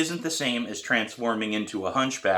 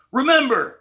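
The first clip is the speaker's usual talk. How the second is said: much higher, loud call; shouting over drums; 8 dB louder than usual. A narrator's reading. Teacher shouting over the student's drumming, loud. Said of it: "Pete shouts over my drumming".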